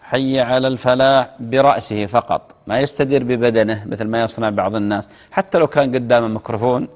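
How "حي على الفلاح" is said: slow hayya ala al-falah, drawn-out ending; demonstrated call to prayer, lightly stretched; adhan call. Shown as a demonstration. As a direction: call it measuredly like a muezzin. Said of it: "وعلى اليسار".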